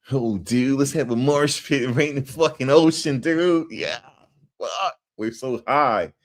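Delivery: high, whooping mock stoned dude; imitated party bro. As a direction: play a hyped bro mid-party. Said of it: "That's how they act".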